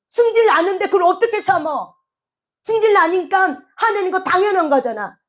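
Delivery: acted high-pitched protest; indignant self-justification. People insist they cannot hold their temper, indignant self-justification. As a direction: argue back as if wronged.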